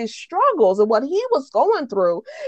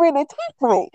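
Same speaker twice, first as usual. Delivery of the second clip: muffled speech. Shown as a demonstration. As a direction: hand over mouth, muffled. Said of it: "this is how you can't really talk right".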